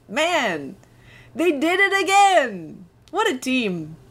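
excited inner voice. Retold or imitated. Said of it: "And I thought".

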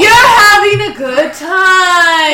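insistent shout. Acted. Narrator insists loudly.

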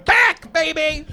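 slow, loud announcer comeback; hype host shout. Acted. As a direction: belt it like a show host.

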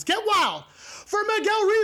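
high, loud emcee introduction; hype announcer shout. Real, not acted. Host bringing on the guest, shouted announcer hype. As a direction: belt out the guest's name, stretching the end.

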